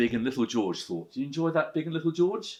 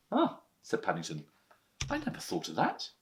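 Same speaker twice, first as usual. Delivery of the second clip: bear's realisation; 2 semitones lower, 5 dB quieter than usual. Acted. Bear realises.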